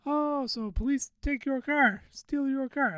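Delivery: high, slow imitation Filipino accent; attempted Filipino accent. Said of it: "I'm trying to do the accent".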